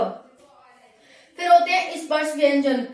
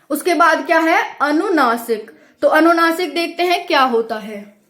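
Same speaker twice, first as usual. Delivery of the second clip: louder, calling the class to attention; announcing loudly; 6 dB louder than usual. Real, not acted. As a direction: raise the voice to open the new topic. Teacher announces next topic loudly.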